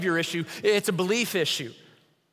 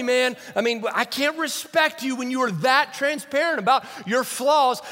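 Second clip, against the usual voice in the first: higher, mock-exasperated scolding of Paul; mock indignant; 4 semitones higher than usual. Pastor scolds Paul for oversharing, mock-indignant and higher.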